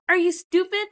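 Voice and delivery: loud, high are you stupid; hammed-up angry girlfriend; mock outrage. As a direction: snap at her in disbelief. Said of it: "Maggie's like".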